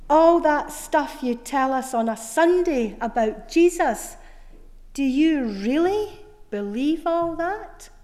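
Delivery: incredulous questioning. Retold or imitated. Sceptical man presses his question, acted.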